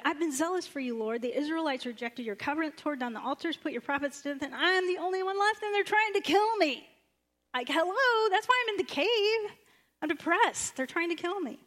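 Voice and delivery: high, loud, exasperated complaint; exasperated Elijah. Acted. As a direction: whine it out like a hunted prophet at his wits' end. Elijah's complaint voiced with rising pitch.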